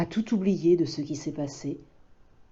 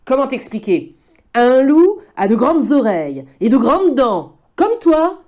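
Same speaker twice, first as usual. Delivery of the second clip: higher, louder bear voice; explaining bear; 6 semitones higher, 8 dB louder than usual. Acted. Bear explains wolves to Loup, higher and louder. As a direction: lay it out eagerly. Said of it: "dit un ours".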